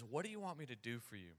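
softly spoken, quick, kindly offer; soft acted voice of a healer; gentle question. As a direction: ask it quietly, one to one. Jesus gently addresses the blind man.

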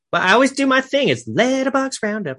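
high-pitched British take on the show name; hammed-up British accent; put-on British accent. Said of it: "in a British accent".

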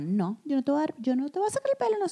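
high mock mother saying no; mother's refusal. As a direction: play the strict mom refusing her daughter. Mother refusing, voiced in story.

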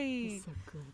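gasped whisper of delight; excited whisper. Real, not acted. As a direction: whisper in awe at the dog. Whispering over the dog.

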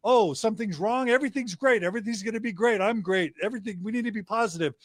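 mock positive dad. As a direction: ham up the always-positive dad, fast at the end. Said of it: "I'm always the positive dad".

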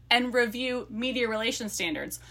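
lively book-blurb read-aloud. Acted. Co-host reads friends the book blurb, lively read-aloud.

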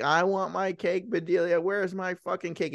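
hammed-up cake demand at ordinary volume; mock angry yelling. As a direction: imitate a tyrant father without really yelling. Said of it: "He's screaming. He's, like, yelling at her".

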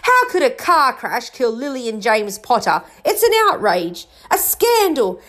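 acted giant's scandalised anger; angry. A narrator's reading. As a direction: protest in mounting outrage. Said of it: "jumping up so angrily".

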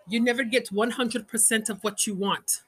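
a hint of an Indian accent, hammed-up; lightly put-on Indian auntie accent; bad Indian accent. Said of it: "It's my horrible Indian accent".

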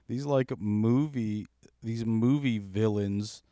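telling it like an unbelievable movie scene; excited. Real, not acted.

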